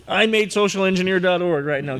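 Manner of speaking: playful high-pitched mock claim; mock boasting. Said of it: "I'm just teasing".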